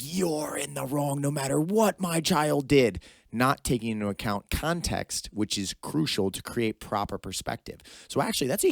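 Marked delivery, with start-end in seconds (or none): 0.0-3.0 high, slow mock indignation; emotional mother impression. Mother defending her child regardless, high emotional mock protest. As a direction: drag out a protective parent's blame. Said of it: "It's the emotional side".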